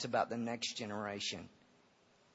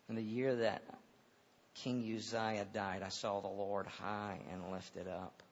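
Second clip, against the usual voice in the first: solemn scripture reading; 2 semitones lower than usual. Acted. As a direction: read it with hushed awe. Reciting scripture.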